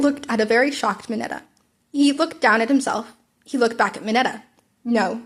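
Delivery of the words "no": monotone. Acted. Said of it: "in a monotone voice".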